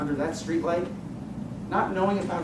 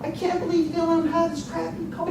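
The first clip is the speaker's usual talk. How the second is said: laughing; 12 semitones higher than usual. Retold or imitated. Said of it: "Jeff looks at me and says".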